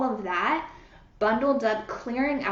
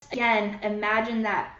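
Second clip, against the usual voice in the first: soothing meditation voice, unhurried; guided visualization. Acted. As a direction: paint the light for them calmly.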